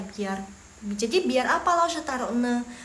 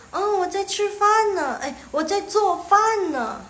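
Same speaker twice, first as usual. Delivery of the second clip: higher, louder acted reply; example reply; 9 semitones higher, 6 dB louder than usual. Student answering what they are doing, higher and louder. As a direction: play a casual answer with a lifted voice. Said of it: "Jadi kalian bisa bilang".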